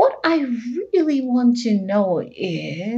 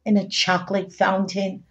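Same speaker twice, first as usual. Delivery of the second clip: expressive picture-book reading; reading to children; 4 semitones lower than usual. A narrator's reading. Host reading picture book to children, storytime voice. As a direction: read on in a storytime lilt.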